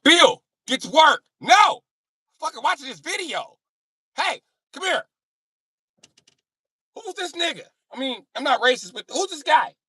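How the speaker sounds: put-on very high, loud old white guy; old white guy impression. Old white guy distracted by a rap video, high hollering.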